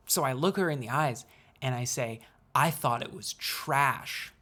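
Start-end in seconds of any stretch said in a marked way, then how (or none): 2.6-4.3 slow, straight-faced, with no smile in the voice; dry sarcastic jab, said slowly and totally straight; deadpan sarcasm. Retold or imitated. Telling mom her video was trash, slow deadpan sarcasm. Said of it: "I said it with a straight face".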